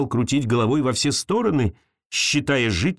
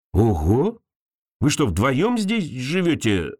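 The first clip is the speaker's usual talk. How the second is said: surprised; slower than usual. Acted. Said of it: "удивился Лёша".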